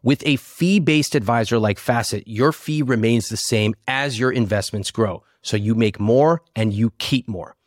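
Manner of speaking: lively sponsor pitch; ad read. Acted. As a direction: sell it like a podcast ad.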